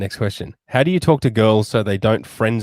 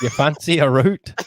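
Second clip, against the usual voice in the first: imitating a Liverpool accent; 5 semitones higher than usual. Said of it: "You went, you went, uh, like, northern".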